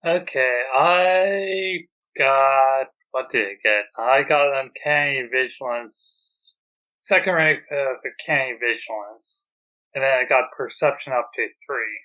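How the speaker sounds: tinny, far-off voice through a broken headset; tin can phone. Real, not acted. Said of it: "sounds like he's talking to us from through a tin can phone".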